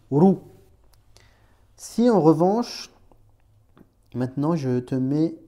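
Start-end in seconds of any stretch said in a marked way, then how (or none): 0.1-0.4 roux with the R trilled; rolled R. Shown as a demonstration. Teacher modelling roux with a rolled R. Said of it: "tu le roules".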